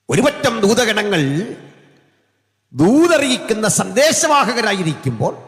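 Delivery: loud, high pulpit cry; full-force preaching. Real, not acted. Preacher naming the messenger angels, full-force preaching. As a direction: proclaim it high and strong.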